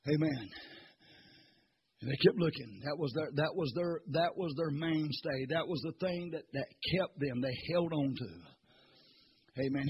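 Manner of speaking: soft, intimate preaching with long pauses; hushed preaching. Real, not acted. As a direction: pull them in close and quiet.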